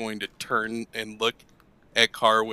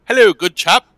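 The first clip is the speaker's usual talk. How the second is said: high, jolly-good gentleman voice; super proper; 11 semitones higher, 10 dB louder, faster than usual. Acted. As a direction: greet like a very proper chap. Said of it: "super proper in Aquan".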